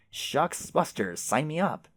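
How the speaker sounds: slow, hammed-up yokel cheer; folksy hick phrase. Playing the eager rube to a game company, slow folksy drawl. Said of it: "I would have said".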